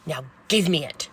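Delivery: exasperated nurse losing patience; stern, insistent command; firm angry demand. Retold or imitated. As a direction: push out the order, punching GIVE. Nurse's demand builds, retold.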